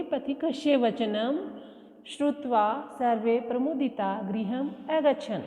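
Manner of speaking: each Sanskrit word read out slowly for pupils; slow dictation. Shown as a demonstration. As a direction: dictate the sentence slowly and clearly. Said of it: "क्या करोगे?". (धीरे-धीरे बोलकर लिखवाना)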